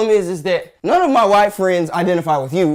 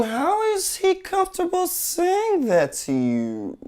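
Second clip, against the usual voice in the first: disbelief; 12 semitones higher, much slower than usual. Real, not acted. Disbelieving question.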